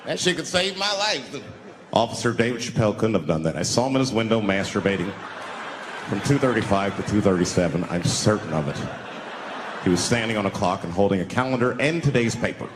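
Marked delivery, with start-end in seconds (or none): 1.9-12.7 low, deadpan witness statement; mock police witness. A witness describing him to police, low and formal. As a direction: testify like a stiff cop, voice dropped low. Voices a witness giving testimony.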